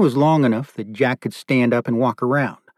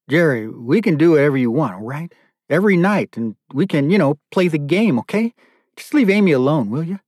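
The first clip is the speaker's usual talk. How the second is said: higher-pitched, anxious bargaining; pleading; 5 semitones higher than usual. Acted. Chained father bargaining with captor for daughter, pleading. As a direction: plead with a captor, lifting the voice on each offer.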